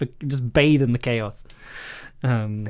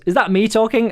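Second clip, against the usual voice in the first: higher, startled question; acted surprise, pitched up; surprised at own voice; 7 semitones higher than usual. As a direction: react as if your own voice caught you out. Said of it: "They've surprised themselves with, with their own voice".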